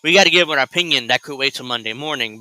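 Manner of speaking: fast, sarcastic mimicry of the host's rush; mocking impression. Mocking the host for rushing the camera, fast sarcastic mimicry. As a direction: rattle it off like a smug newsman in a hurry. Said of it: "He's like".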